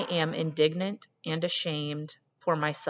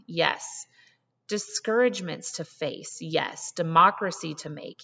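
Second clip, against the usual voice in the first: strong and resolute. Acted. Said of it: "her voice an electric flow of strength".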